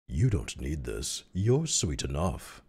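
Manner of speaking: slow, drawn-out pickup line; slow flirtatious character line; suave love interest. Acted. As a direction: stretch out each word, smooth and unhurried. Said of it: "he said in a thick accent".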